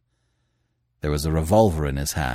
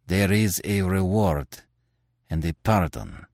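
dogged mutter. A narrator's reading. Terry reluctantly answers his questioners, muttering doggedly. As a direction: say it doggedly, taking your time. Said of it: "he muttered doggedly".

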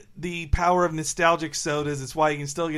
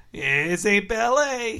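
drawn-out mock wrestler boast; mock a wrestler, stretching it out slowly; pro wrestler; 3 semitones higher, much slower than usual. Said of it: "when pro wrestlers say".

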